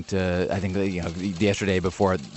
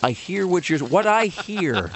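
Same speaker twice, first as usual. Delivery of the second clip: put-on stereotypical Jewish accent; 6 semitones higher, slower than usual. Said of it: "in your Jewish, Jewish voice".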